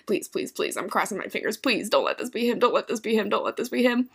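soft hushed prayer; whispered pleading. Retold or imitated. Hoping the man isn't Carrie, in a soft hushed plea. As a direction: plead under your breath. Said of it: "I'm like".

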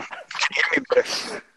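distant, faint from another room; far off. Real, not acted. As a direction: voice from far away. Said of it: "talk from a mile away".

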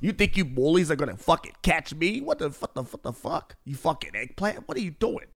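sputtering mock New York tough guy; strong New York accent. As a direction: cuss them out as a put-on New Yorker. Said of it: "They got a strong New York accent".

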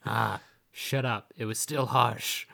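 slow, lightly voiced sulky retort; grumpy adventurer. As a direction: grumble back defensively, slow. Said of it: "she's like".

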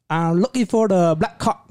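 mock Asian-accented customer; imitated Asian accent. Customer telling the clerk which game he wants, mock Asian accent. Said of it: "I make the accent pretty well".

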